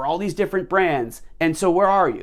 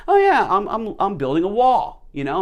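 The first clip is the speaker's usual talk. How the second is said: higher, bright easygoing reply; friendly worker; 4 semitones higher, 4 dB louder than usual. Retold or imitated. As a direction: answer cheerfully like a content bricklayer. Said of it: "And the guy says".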